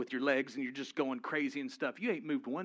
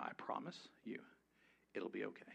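soft reassurance; 4 semitones lower, 9 dB quieter than usual. Real, not acted. Calming blindfolded volunteer.

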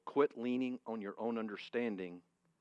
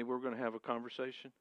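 usual speaking voice

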